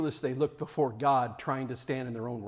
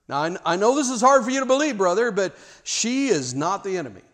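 teasing aside; 6 semitones higher, 8 dB louder than usual. Real, not acted. Teasing congregation about mother-in-law.

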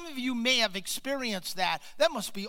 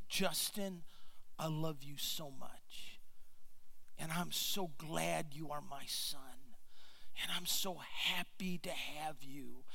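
retold soft whisper; 2 semitones lower, 5 dB quieter than usual. New father to his crying baby son, softly imitating a whisper. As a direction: speak gently and quietly, as if into a baby's ear. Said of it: "I start to whisper in his ear".

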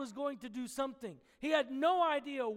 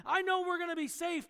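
higher and louder, brightly sure of it; confident reassurance; 6 semitones higher, 6 dB louder, faster than usual. Pretend. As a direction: promise the crowd you've got this. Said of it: "And you're like".

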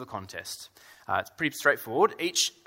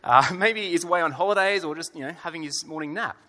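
sarcastic; 4 semitones higher than usual. Retold or imitated. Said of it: "a more humorous direction".

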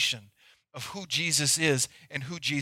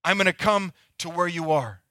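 Peter calling out; 3 semitones higher than usual. Acted. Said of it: "Peter says".

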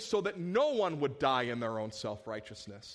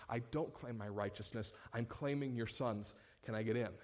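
humble plea; 6 semitones lower, 6 dB quieter than usual. Acted. Humble sinner pleading before God.

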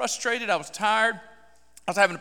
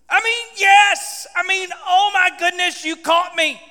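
loud, high, stretched exclamation; flustered backtracking; 7 semitones higher, 5 dB louder, slower than usual. Retold or imitated. Preacher admitting God caught him, flustered backtracking. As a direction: blurt it out, caught in the act.

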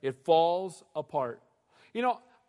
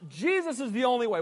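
bold declaration; 6 semitones higher than usual. Retold or imitated. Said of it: "Now standing up".

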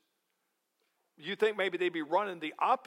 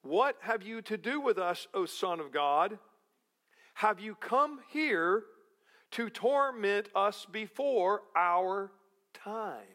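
mild mock cry; 4 semitones higher than usual. Demons crying out to Jesus, slow and raised. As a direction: plead like frightened demons. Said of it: "they cried out".

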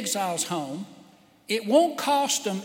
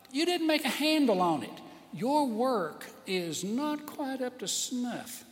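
complaining vessel; 3 semitones higher than usual. Pretend.

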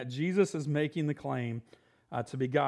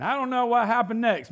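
excited; 8 semitones higher, 7 dB louder than usual. Real, not acted. Preacher excited about escape story.

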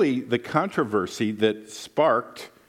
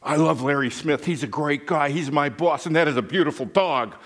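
lightly voiced, gushing flatterer; fawning worker; 3 semitones higher than usual. Worker sucking up to the boss's son, mildly gushing. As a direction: gush to win favour, a bit faster. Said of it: "you should have seen him do an about face".

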